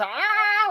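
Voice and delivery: high drawn-out "aah" imitating a monster; mock gaping-mouth cry. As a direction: mimic a wide-mouthed creature, high and long. Imitates the creatures' wide mouths.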